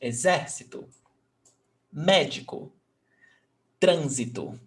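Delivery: "Exército, médico, trânsito" each stressed third from the end; antepenultimate stress. Shown as a demonstration. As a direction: hit ZER in "Exército", MÉ in "médico". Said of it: "So the antepenultimate syllable".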